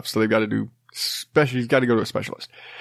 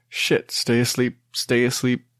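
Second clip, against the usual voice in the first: hushed unvoiced plea to stay asleep; whisper. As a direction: breathe it, don't wake the kid. Dad willing sleeping toddler, whisper.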